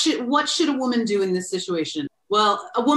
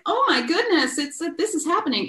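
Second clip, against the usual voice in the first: high, exaggerated movie gasp; a mock film-style gasp of alarm; mock movie panic; 9 semitones higher than usual. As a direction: ham up a dramatic movie moment. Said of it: "it's not like a movie where you're like".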